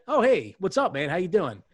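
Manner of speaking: upbeat bartender hello; friendly greeting. Retold or imitated. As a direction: sound glad to see him. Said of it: "when somebody's like".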